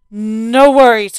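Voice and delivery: slow, loud, shrugging it off; dad brushing off the worry; casual dad voice. Acted. Dad reassures calmly.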